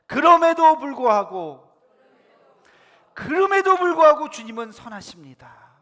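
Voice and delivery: 힘찬 선포. Real, not acted. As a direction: proclaim it for the congregation to repeat. Leads congregation to repeat declaration. (회중이 따라하도록 크게 외치는 선포)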